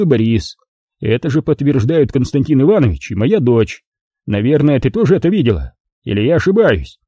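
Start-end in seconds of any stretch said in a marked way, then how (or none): none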